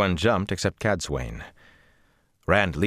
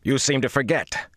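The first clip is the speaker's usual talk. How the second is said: firm. Acted. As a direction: assert your rank. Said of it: "Rand said firmly".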